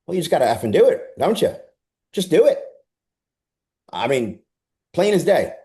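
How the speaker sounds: be the dismissive trainer shutting the question down; mock brash trainer. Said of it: "his response was something to this".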